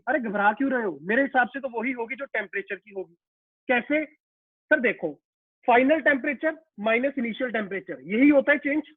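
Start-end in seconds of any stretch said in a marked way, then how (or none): 5.7-8.0 formula said slowly, word by word; slow spelling out. Shown as a demonstration.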